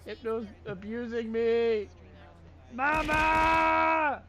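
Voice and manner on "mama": shouted call for mama. Pretend. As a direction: yell for mama. Calling out while bullied in game.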